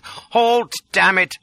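high, loud shout after a coach. A narrator's reading. Man yelling at a coach driver to stop, shouting. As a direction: call out urgently to halt it. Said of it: "I shouted".

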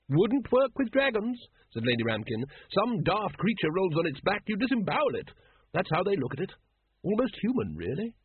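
a cheerful breeder talking gore; hearty noblewoman. Acted. Lady Ramkin tells Vimes how dragons fight, jolly and high.

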